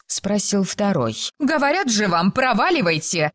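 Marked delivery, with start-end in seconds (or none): 1.4-3.3 higher-pitched, insolent brush-off. A narrator's reading. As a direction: tell them off boldly. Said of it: "дерзко бросила Филиппа". (дерзко)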